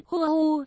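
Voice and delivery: a put-on wail of grief; hammed-up weeping; acted sobbing. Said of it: "rồi mếu máo".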